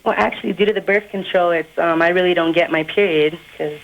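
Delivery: put-on boy faking a young girl's voice. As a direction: pass yourself off as a teenage girl. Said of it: "do the chick voice again".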